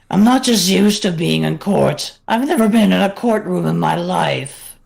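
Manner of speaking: pitch-shifted animatronic showman voice; voice-changed cartoon entertainer; Funtime Freddy voice. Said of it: "I'm practicing Funtime Freddy's voice".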